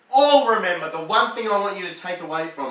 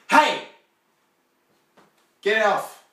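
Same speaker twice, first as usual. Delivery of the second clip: higher, loud little protest; protesting insect; 4 semitones higher, 5 dB louder than usual. Acted. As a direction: yell up like a bug underfoot. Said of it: "you can't hear them say".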